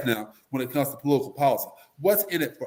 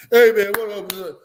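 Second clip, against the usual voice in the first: loud, higher, slow street hello; street greeting; 6 semitones higher, 7 dB louder than usual. Retold or imitated. A guy in the hood answers the preppy visitor loudly. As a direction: greet him loud and casual. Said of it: "reply in the hood scene".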